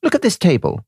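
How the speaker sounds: a hint of a grand prime minister addressing a rival; Lloyd George speech. Prime minister impressing De Valera with the empire, lightly voiced oration. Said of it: "David said to De Valera".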